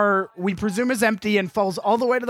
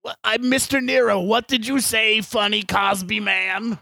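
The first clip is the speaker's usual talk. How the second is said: deaf Australian man; slower than usual. Acted. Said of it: "he's a deaf Australian man".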